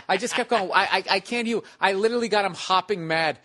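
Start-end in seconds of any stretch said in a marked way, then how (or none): 0.7-1.6 high, loud mock "can't hear"; taunting pretend deafness. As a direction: goad the heckler, playing deaf. Retold taunting of angry heckler.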